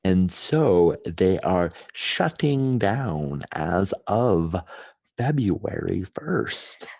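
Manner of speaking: every syllable crisp and separate; over-enunciating. Shown as a demonstration. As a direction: spit out each syllable. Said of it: "really over enunciate every syllable".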